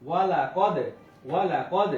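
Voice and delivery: ওয়ালা কদ with short unstretched vowels and a bounced d; quick short vowels. Shown as a demonstration. Teacher showing quick harakat to students, ওয়ালা কদ said short. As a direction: say ওয়ালা কদ briskly, never drawing out a vowel. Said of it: "তাড়াতাড়ি করতে হবে".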